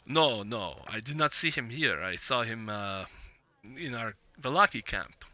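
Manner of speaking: lightly voiced Vistani trader, measured and hesitant; Vistani businessman. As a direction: play a guarded businessman, feeling out each phrase. Game master voices Vistani businessman.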